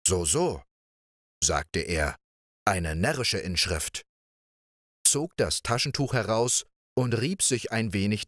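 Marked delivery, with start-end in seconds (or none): 0.1-4.0 put-on lower, lightly scoffing young man; dismissive Pechvogel. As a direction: brush the sign off with a low so so.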